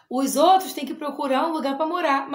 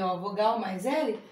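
laughing repeat; 4 semitones lower, 4 dB quieter than usual. Shown as a demonstration. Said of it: "Mas quando ele vem depois da vogal".

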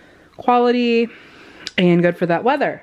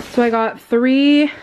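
out of breath; 5 semitones higher, 3 dB louder than usual. Real, not acted. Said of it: "I just ran up the stairs, that's why I'm out of breath".

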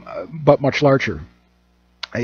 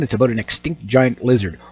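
normal talking voice

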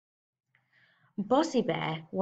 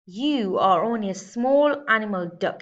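louder, gruff grumble; grumbling bear; 2 semitones higher, 6 dB louder than usual. Acted. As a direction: grumble down at the little duck. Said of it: "he grizzled".

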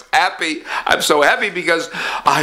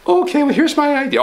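higher pompous rich man; 11 semitones higher than usual. Acted. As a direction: puff up as the rich boss.

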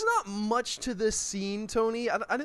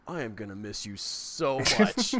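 sincere; 8 semitones lower than usual. Retold or imitated. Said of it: "not glib snarkiness, delivers it like".

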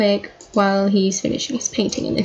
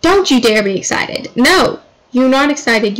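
mock scolding; 2 semitones higher, 3 dB louder than usual. Scolding her game character for excitement.

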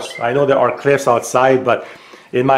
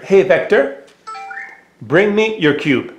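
raised, higher-pitched command to a robot; raised and high, the way you call a pet across the room; 6 semitones higher than usual. Real, not acted. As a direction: call it out clearly so the robot hears.

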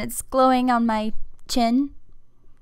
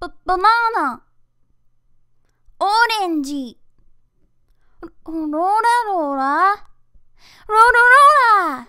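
put-on fast high sweet girl voice; high cute anime girl; 6 semitones higher, faster than usual. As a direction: chirp the lines like a sweet child. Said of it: "that was all my voice acting".

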